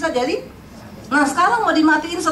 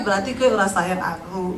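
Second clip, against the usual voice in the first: sulking husband; 8 semitones lower, 3 dB quieter than usual. Retold or imitated.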